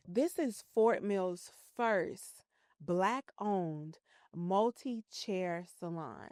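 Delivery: very slow, each word spelled out; over enunciating. Shown as a demonstration. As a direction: lay it down word by word, deliberately. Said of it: "let me say this very slowly".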